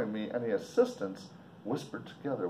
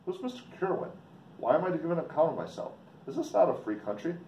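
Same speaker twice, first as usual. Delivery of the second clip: indignant surprise; 6 semitones higher, faster than usual. Acted. Victor protests in a reading.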